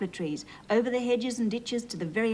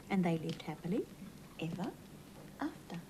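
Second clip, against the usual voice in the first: quiet fading happily ever after; fading ending; 2 semitones lower, 9 dB quieter than usual. A narrator's reading. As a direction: let it fade away gently.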